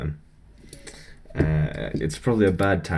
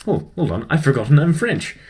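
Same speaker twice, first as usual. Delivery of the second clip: raised, louder mock French realisation; hammed-up French accent, building higher and louder; terrible French accent; 7 semitones higher, 6 dB louder than usual. French tutor realising his slip, terrible French accent. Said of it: "do a terrible French accent, uh, or impression of him".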